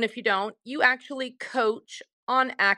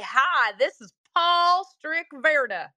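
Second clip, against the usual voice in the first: slow, drawn-out American accent; 4 semitones higher, slower than usual. Shown as a demonstration. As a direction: exaggerate an American accent on each word. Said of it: "Do you have an American where you can say".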